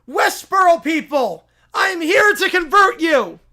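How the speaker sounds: pushy self-proclaimed prophet bellowing; loud holy crusader voice; zealous preacher. Acted. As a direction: barge in demanding converts. Zealous preacher figure storms in.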